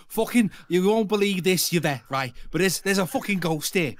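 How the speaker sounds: lightly hammed-up Scouse ghost hunter; Derek Acora impression. Streamer warning Yvette of a ghost, mock Scouse medium. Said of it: "I was doing my impression of, um, Derek Acora".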